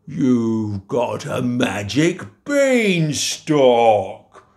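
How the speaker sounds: slow, loud giant menace; giant's threat. Acted. Giant threatening Jack slowly and loudly. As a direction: drag it out like a giant closing in.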